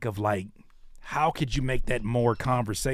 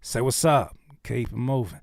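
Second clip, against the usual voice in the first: split into two phrases; 3 semitones lower than usual. Shown as a demonstration. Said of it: "taking words out".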